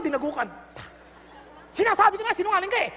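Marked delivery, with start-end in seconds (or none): 1.7-2.9 mock scolding parent.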